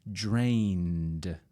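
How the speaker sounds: drained ending on a voiced D sound; past with a D sound. Shown as a demonstration. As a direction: land the final D in drained. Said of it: "Drain, drained".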